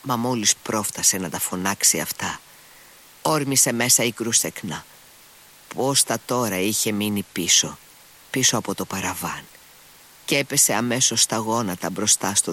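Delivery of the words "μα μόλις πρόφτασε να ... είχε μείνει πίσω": ordinary talk, nothing marked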